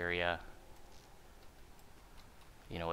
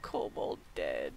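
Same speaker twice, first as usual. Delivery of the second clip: talking while chewing ice; words around crunching ice; 7 dB quieter than usual. Real, not acted. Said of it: "Sorry, chewing ice here".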